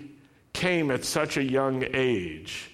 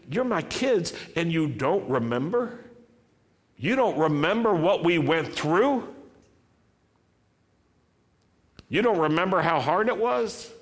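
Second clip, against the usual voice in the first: raised, pleading father's voice; God as father; 5 semitones higher than usual. Acted. God speaking to his children, pleading.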